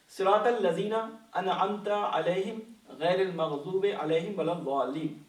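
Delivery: slow, measured Arabic recitation; Quranic verse recitation. Acted. Teacher quotes the verse to open its commentary, slow recitation. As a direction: recite the verse slowly, sinking at the close.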